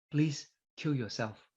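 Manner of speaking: slow, hushed mock whisper. Killer cell whispers to the infected cell, slow soft whisper. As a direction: drop to a slow, secretive whisper, acting the cell. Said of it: "it will whisper".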